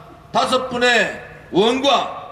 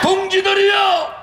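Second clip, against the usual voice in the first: roaring rallying speech; 12 semitones higher than usual. Real, not acted. Leader leads chanted slogan.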